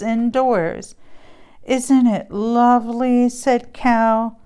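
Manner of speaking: lively storybook read-aloud with character voices; reading to children. Acted. Mom reading a Christmas book to kids. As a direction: read it like bedtime story time.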